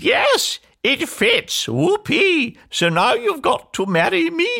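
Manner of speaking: very high, squealing ugly sister; triumphant scream. A narrator's reading. Ugly sister claims the prince, screaming in triumph. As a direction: shriek with gleeful triumph. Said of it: "But she screamed".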